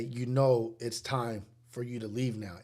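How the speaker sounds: slow, measured polite dismissal; imitating a courteous but ominous request; respectful. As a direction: ask them to leave, slowly and respectfully. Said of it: "and respectfully say".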